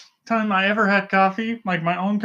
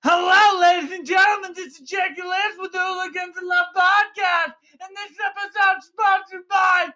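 monster yell; 10 semitones higher than usual. Acted. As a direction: bellow it like a muppet monster. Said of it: "Why are you yelling into the mic".

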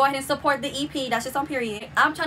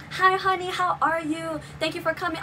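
higher, friendly imitation of the star; Suki's greeting; 5 semitones higher than usual. Celebrity thanking a fan for coming, high imitated greeting. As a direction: act out her gracious hello in a raised voice. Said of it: "she was so not".

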